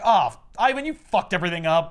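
hammed-up furious monster; monster scolding. Minka blaming Ivan, loud mock fury. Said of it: "She's like".

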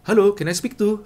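menirukan orang bule. Retold or imitated. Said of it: "mereka mengatakan".

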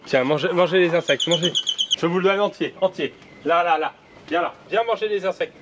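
high coaxing to birds. Real, not acted. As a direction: coax the birds to eat. Feeding insects to birds.

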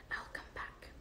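soft unvoiced whisper, barely breathed. A narrator's reading. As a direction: breathe it out as a secret promise. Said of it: "and whispered".

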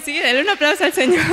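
high, loud, laughing call for applause; rally the church to clap for the Lord; jubilant call. Real, not acted. Preacher urging the congregation to applaud God, jubilant shout.

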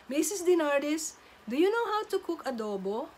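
put-on a boy piping up all curious; eager kid. Boy raising his hand to ask the teacher, eager child voice. Kid's eager question in class.

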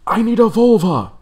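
high, loud hammed-up cry for help; mock shout. Barging into camp, shouting for a healer. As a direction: yell it like a panicked warrior. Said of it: "he shouts out".

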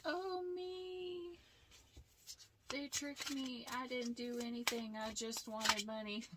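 high, whiny mock victim, pitch falling back down. Tarot reader mocking the karmic playing the victim, high whiny voice. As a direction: play the innocent in a high put-on whine.

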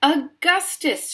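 high, drawn-out motherly shout. A narrator's reading. Missus Gloop to her son at the river, shouting. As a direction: stretch the name into a loud call. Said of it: "shouted Missus Gloop".

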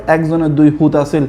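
Noakhali example sentence; demonstrating Noakhali regional speech; Noakhali dialect. Shown as a demonstration. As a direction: say it as Noakhali locals do. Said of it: "নোয়াখালীতে কী বলে".

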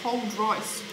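talking while chewing; eating pastry between words; mouth full, chewing. Real, not acted. Seen 0: Bites pastry at -9; lips pursed and chewing into early words.

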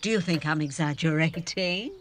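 fast, high, loud pressing; pressing her lover hard; urgent insistence. Acted. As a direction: demand he believe her. Insistent flattery, rising.

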